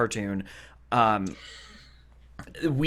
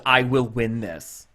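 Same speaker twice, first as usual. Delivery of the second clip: lightly voiced dead-serious queen; deadpan; 4 semitones lower, slower than usual. Queen standing up to Margaret, mock dead serious. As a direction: state it slowly and deliberately, imitating firm resolve. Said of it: "the queen's dead ass goes".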